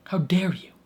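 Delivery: whispered, hammed-up wounded indignation; mock whisper. Fan repeating her complaint to the show as a mock whisper. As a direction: hiss it in betrayed disbelief. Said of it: "And it's like".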